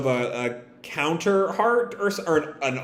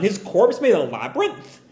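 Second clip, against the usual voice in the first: mildly stunned, higher-pitched question; a touch of astonishment; 4 semitones higher than usual. Retold or imitated. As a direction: read it as mild disbelief. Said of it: "Happy is sort of stunned".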